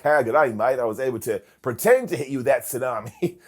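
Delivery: Australian mate, badly imitated; mock Australian accent. Wrestling reviewer mimics Bronson's imagined confession, mock Australian accent. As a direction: put on a botched Australian accent. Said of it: "What's wrong with your accent, Bronson?".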